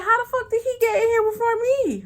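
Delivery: high, loud incredulous outburst; shocked disbelief. Retold or imitated. Shocked he got there first.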